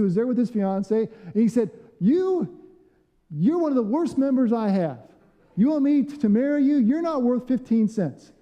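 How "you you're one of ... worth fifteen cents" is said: mock berating pastor. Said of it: "went on to berate him".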